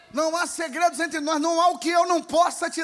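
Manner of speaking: Não há segredos entre nós, shouted out; proclaimed loud. Shown as a demonstration. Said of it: "same words softly before". (proclamado em voz alta)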